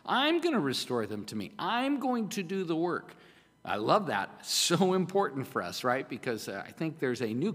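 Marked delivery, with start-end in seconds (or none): 0.0-3.1 God's promise. Acted. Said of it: "He said".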